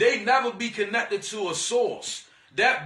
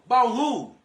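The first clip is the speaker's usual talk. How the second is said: dismissive refusal; 4 dB louder than usual. Retold or imitated. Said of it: "You supposed to be the person that be like".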